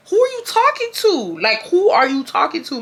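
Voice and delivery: high mocking outrage; going off. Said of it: "going back off on her".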